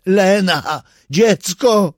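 put-on high, loud call to her child; a mother crying out for her daughter; frantic cry. A narrator's reading. Mother lunges toward daughter.

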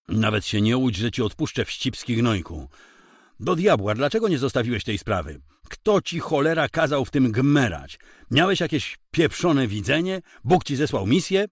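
a gunman spitting rage at his captive; furious gunman. Acted. Gunman threatening the nosy husband, furious and loud.

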